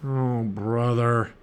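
long drawn-out groan of dismay; moaning. A narrator's reading. Jack reacting to Annie greeting an octopus, moaning. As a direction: moan it slowly, fed up. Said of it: "moaned Jack".

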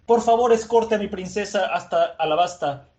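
pleading shout. Retold or imitated. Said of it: "le grita a Zoro".

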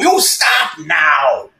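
drawn-out mock cry to halt; mock protest shout. Comic imagining himself storming a clinic, slow mock shout. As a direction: call it out slowly like a mock protester. Mimes confronting an abortion clinic.

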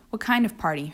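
hoarse, croaking question; croaky voice. Acted. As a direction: let the voice croak. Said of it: "her voice croaked".

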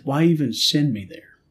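hurt accusing outburst, voice up; retold yelling at God. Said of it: "I started yelling at God".

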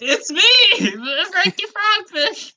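high-pitched cartoon frog voice; Frankie Frogfish. Fish back from the dead greets the gang, high put-on voice. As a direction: pitch it up for a returning fish character. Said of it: "That's his classic Frankie voice".

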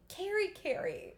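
lightly voiced puzzled mother; Big's mother. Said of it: "She's like".

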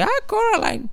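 high, drawn-out "ah" of suspicion; a light hint of dread; mock wary surprise. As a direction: sound uneasy at the title. Friend names scary movie.

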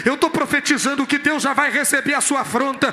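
forceful, driving preaching; pregação inflamada. Real, not acted. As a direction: build toward a congregational response. (pregação vigorosa, em crescendo)

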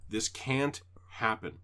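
slow, spelled-out; slow firm repeat. Retold or imitated. Repeating to the cat slowly, spelled out. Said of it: "I explain again".

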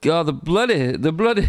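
put-on light, halting Scottish accent; tentative mock-Scottish lilt; Scottish accent attempt. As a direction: try out a Scottish accent, breaking into laughter. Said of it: "Scottish accents".

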